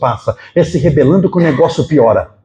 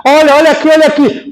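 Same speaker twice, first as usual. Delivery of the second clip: agudo e mais alto, como a uma criança; mãe distraindo criança; 9 semitones higher, 4 dB louder than usual. Retold or imitated. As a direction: chamar a atenção da criança, animada. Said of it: "o que é que ela fala?". (mãe distrai a criança que caiu, voz aguda e animada)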